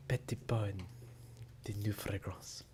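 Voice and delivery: hushed breathy commercial voice; sultry perfume ad. Pretend. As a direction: purr it like a perfume ad. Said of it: "like a perfume commercial".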